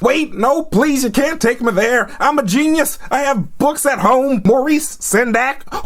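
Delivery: high-pitched hammed-up begging; mock desperate pleading. Nathaniel begs the Marauders not to take him, mock desperation. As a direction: plead for mercy in imitated panic.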